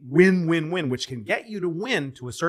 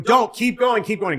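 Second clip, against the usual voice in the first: higher, louder urging shout; crowd urging; 10 semitones higher, 4 dB louder than usual. Retold or imitated. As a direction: push him on like the whole studio. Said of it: "everybody's going".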